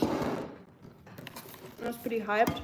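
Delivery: talking while chewing; words round a mouthful of food; mouth full. Real, not acted. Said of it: "eating with my mouth open".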